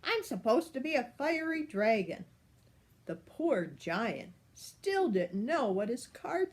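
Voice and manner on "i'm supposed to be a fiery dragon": higher, petulant little worm; whiny worm. Acted. The worm sulks into his hole, higher whine. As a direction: sulk like a tiny worm.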